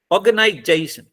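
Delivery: "ऑर्गेनाइजेशन" with "जे" strongest, "शन" falling away; stress on जे. Shown as a demonstration. Teacher showing where stress goes, "जे" strongest in ऑर्गेनाइजेशन. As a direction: punch "जे" in "ऑर्गेनाइजेशन". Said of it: "जई पे सबसे ज्यादा stress देना".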